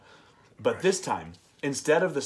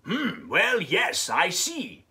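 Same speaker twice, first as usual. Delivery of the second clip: mumbling doctor; 4 semitones higher, much slower than usual. Acted. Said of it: "Doctor Bumble mumbled".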